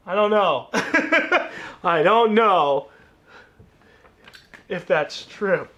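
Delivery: loud, breaking up with laughter; real laughing doubt. Real, not acted. Doubts the durability claim, laughs.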